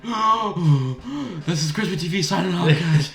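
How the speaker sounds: high, gasping mock sign-off; breathless re-enacted vlog outro; out-of-breath outro. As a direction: imitate signing off a video while winded.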